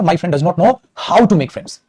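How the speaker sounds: very slow, words drawn out; slow dictation. Shown as a demonstration. Teacher dictating the corrected sentence, very slowly. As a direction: read the fix slowly for the class. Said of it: "ये मैंने verb में कराया था".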